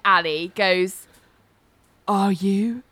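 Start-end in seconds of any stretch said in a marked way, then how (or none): 2.1-2.8 put-on echoey child voice. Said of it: "in an echoey voice".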